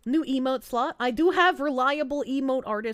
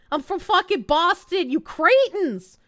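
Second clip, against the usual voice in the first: louder, higher indignant insistence; 5 semitones higher, 6 dB louder than usual. Real, not acted. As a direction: scold the chat for doubting you. Insisting she's from Boston.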